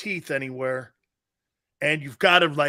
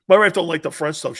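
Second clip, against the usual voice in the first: louder, punched-out repeat; 7 dB louder than usual. Real, not acted. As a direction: say it again so everyone hears.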